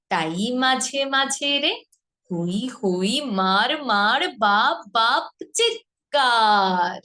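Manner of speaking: lively, theatrical reading of a nonsense rhyme; slow, dramatic verse for children; dramatic rhyme recitation. Acted. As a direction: perform the rhyme with drama and drawn-out sound words.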